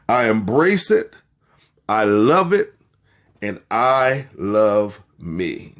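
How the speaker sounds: slow, emphatic self-affirmation; slow declaration. Shown as a demonstration. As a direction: lay each phrase down slowly. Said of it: "Now, I want you to say that".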